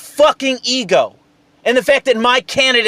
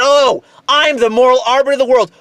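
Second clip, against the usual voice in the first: smug, raised mock-lofty voice; mocking Sam Harris; 3 semitones higher, faster than usual. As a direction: sneer it like a self-important pundit. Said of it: "I don't want to hear your shit about".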